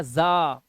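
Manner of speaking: ज़ा said with a voiced buzzing z; buzzed Z sound. Shown as a demonstration. Teacher showing pupils the ending sound, buzzed z. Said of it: "आपको जा का सुनाई देगा".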